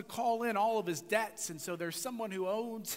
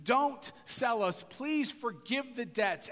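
slow, gently begging servant; mild pleading; 3 semitones higher, slower than usual. Retold or imitated. Debtor servant begging his master, mildly pleading, slow. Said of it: "And so he pleads".

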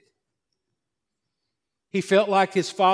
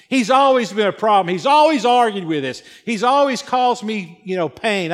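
bitter complaint; 4 semitones higher, 5 dB louder than usual. Acted. Older son's bitter complaints acted out.

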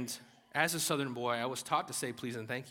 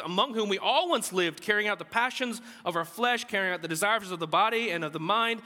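raised voice building to the last phrase; forceful scripture reading; 6 semitones higher, 6 dB louder than usual. Acted. Preacher reading Ephesians to the congregation, forceful. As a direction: read the verse out with mounting conviction.

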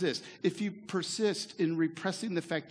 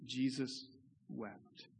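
soft, then a breathy whisper on wept; Jesus wept breathed almost silently; hushed verse; 5 semitones lower, 8 dB quieter, much slower than usual. Acted. Quoting shortest verse dramatically.

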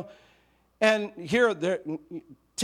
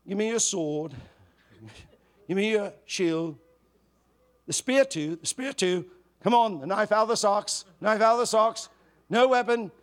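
put-on lightly done British accent, barking orders louder; a hint of an English drill sergeant; 2 semitones higher, 4 dB louder than usual. Preacher as British sergeant collecting the troops' weapons, in a light English accent. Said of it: "saying in an English accent".

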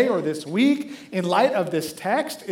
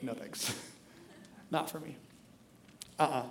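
mock refusal; 4 semitones lower, 12 dB quieter than usual. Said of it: "many times say".

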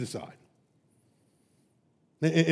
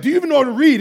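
higher, louder sneering question; mock scornful professor; 6 semitones higher, 5 dB louder, much faster than usual. Professor mocking his student's reading, loud sneer. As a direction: scoff at him. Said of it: "He's like".

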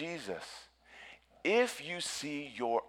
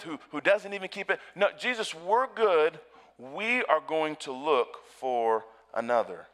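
dismissive Pharisee; 4 semitones higher, 4 dB louder than usual. Pretend. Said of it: "The Pharisees are saying".

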